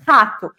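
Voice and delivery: "rato" with a throaty initial R; strong R. Shown as a demonstration. Teacher giving a syllable-initial example, strong R. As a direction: start "rato" on a guttural fricative. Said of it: "esse som forte".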